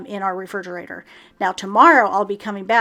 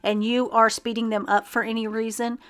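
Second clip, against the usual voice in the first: talking while chewing gum; words round a wad of gum. Real, not acted. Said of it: "I'm chewing gum".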